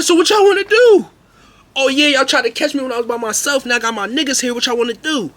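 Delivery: high, loud fight-me shout; loud challenge. Retold or imitated. Narrator daring the classroom crowd to fight, loud high shout. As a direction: yell it at the whole crowd.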